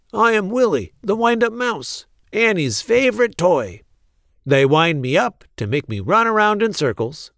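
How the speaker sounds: high, cheerful wind-up mouse voice; bright little toy mouse, proud; squeaky toy mouse. Acted.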